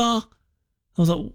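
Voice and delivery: normal talking voice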